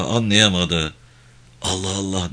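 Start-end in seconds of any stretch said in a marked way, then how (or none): 1.6-2.3 soft, bewildered aside; puzzled muttering. Acted. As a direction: wonder quietly to oneself. Wounded man puzzled by dead horse. (şaşkınca, alçak sesle)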